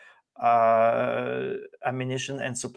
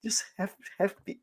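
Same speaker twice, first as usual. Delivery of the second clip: higher, sing-song mock reassurance; voicing the officials talking down to Ukraine, mocking and higher; mocking sweet talk; 9 semitones higher than usual. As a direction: coo at them like a fake friend. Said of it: "They're like, they talk to Ukraine".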